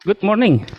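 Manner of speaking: booming greeting into the room; loud morning voice. Real, not acted. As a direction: call out good morning loudly. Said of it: "Can you hear my morning voice?".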